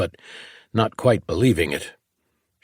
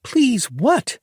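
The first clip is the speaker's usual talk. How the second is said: "Please" thrown back high and biting, rising; mock his "please" with venom; venomous retort. A narrator's reading. Lacey throwing his plea back at him, venomous. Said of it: "Her tone was full of venom".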